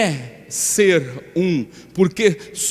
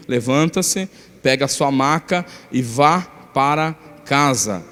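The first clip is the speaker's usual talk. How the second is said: scripture reading. Acted. Pastor reading Mark two aloud, in a steady scripture reading. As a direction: read the passage out to the church. Reads the Gospel passage.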